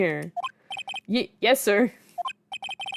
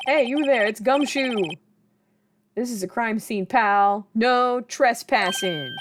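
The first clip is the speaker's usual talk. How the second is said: gruff cop voice; 2 semitones higher, slower than usual. Acted. Cop warning a trespasser off the crime scene, tough-guy voice. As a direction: bark it like a beat cop guarding a scene.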